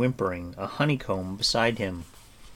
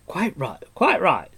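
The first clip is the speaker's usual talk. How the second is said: higher, louder jovial bard; eager bard agreeing heartily; booming jolly bard; hearty bard; 9 semitones higher, 8 dB louder than usual. A narrator's reading. Bard voiced.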